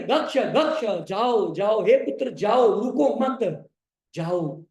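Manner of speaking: lightly acted insistent urging; Sumitra. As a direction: repeat each command with mild maternal insistence. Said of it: "बार बार बोली". (हल्के अभिनय में आग्रह भरा आदेश)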